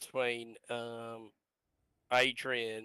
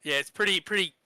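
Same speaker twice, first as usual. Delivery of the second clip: hoarse, worn-out voice; husky and running out of voice. Real, not acted. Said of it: "I just gotta apologise for my, um, husky voice".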